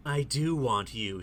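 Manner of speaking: very soft, hushed confession; murmured. A narrator's reading. Woman confessing desire to the man, murmured. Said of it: "she murmurs".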